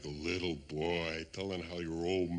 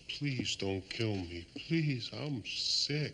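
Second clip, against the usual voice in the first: slow, higher whimpering mock plea; mocking tiny little voice; 5 semitones higher, slower than usual. Gloating man mocking his rival's begging, tiny whimpering voice. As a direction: mimic a begging coward, drawn out. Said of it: "in that tiny little voice of yours".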